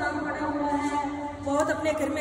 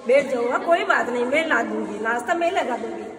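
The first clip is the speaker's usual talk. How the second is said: louder, lower voice smoothing things over; louder cover-up; 3 semitones lower, 4 dB louder than usual. Acted. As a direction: cover for the daughter-in-law loudly. Mother-in-law covering, louder. (ज़ोर से बात संभालती सास)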